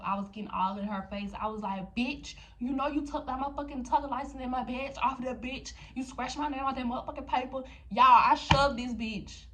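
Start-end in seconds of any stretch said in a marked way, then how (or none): 2.0-7.6 retold accusation, a touch heated; imitating her own angry self; mock angry confrontation. Retelling confrontation. 7.9-9.5 louder and slow; slow loud reveal to the viewers; loud emphatic. Real, not acted. Announcing she shoved her.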